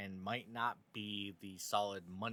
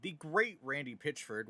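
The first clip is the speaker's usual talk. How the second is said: mock-admiring, pitched up on the name; higher, sarcastic fake praise; 4 semitones higher, 3 dB louder than usual. Real, not acted. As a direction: say it with obvious sarcasm. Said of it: "if you can't tell the sarcasm there".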